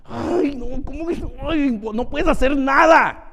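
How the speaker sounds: high-pitched mock wail of helplessness; acted helplessness. Preacher showing crying from powerlessness, helplessly exasperated. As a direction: act out exasperation, swelling toward the last word. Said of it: "¿Ha llorado de impotencia?".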